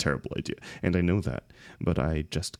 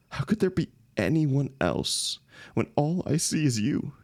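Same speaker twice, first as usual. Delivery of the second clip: desperate plea; 5 semitones higher than usual. Acted. Desperate confession to a friend.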